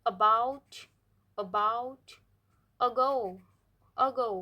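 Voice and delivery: about with a short weak uh at the start; short schwa onset; schwa demo. Shown as a demonstration. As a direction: clip the first vowel of about. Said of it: "यहाँ पे use हो रही है द".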